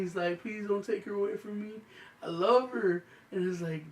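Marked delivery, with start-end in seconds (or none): 0.4-3.0 a touch of retold weepy begging; mock tearful plea. Husband crying to the judge over his pillow, mock pleading. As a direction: plead in a higher voice, lightly imitating crying. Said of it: "and he's crying".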